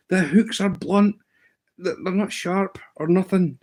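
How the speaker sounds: put-on a kid sure his gear is to blame; imitating the boy.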